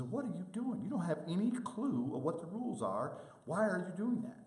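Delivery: high-pitched imitated coach yelling. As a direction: bark it like an irate coach at the ref. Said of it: "a coach that yells at us".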